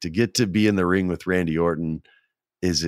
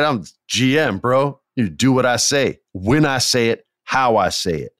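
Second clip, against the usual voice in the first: cocky boss; 5 semitones higher than usual. Retold or imitated. Bossy wrestling persona boast.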